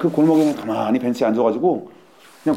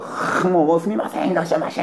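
high schoolgirl voice; 7 semitones higher, slower than usual. Retold or imitated. Imitating Japanese schoolgirls again.

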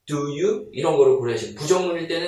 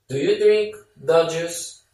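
1 slow model sentence; much slower than usual. Shown as a demonstration. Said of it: "slow model sentence for learners".

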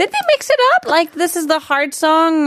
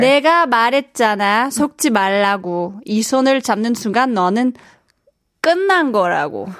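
fierce boss delivery; much faster than usual. Shown as a demonstration. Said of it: "what's the 느낌 that you're going for here?".

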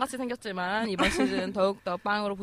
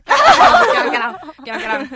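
slow, high alien chant; Bbangsang lady impression; 13 dB louder than usual. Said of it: "빵상 아주머니가 생각이 났어".

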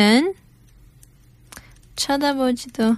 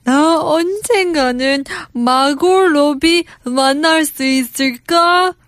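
a hint of a hopeful dialogue character; Hyunwoo; 2 semitones higher than usual. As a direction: wonder hopefully, lightly playacted. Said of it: "I'm Hyunwoo".

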